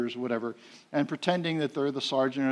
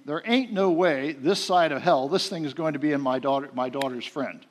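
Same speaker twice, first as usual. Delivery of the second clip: mad inner voice. Retold or imitated. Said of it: "When I get mad, I start using "ain't".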